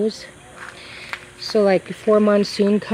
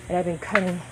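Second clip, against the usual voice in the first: crunching; faster than usual. Real, not acted. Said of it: "pardon the crunching".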